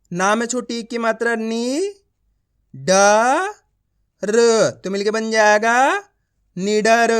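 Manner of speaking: नी, ड, र each alone with pauses, then a joined निडर; slow blending drill leading to निडर; letter-by-letter reading. Shown as a demonstration. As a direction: sound out निडर piece by piece for pupils. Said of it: "आप इस तरीके से उच्चारण करोगे".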